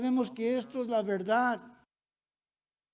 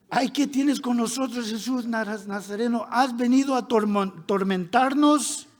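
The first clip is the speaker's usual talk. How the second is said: raised, higher-pitched outcry of many spirits; crying out; 4 semitones higher, 5 dB louder than usual. Acted. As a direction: cry it out, building louder to the last word. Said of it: "que dio voces". (dando voces, cada vez más fuerte)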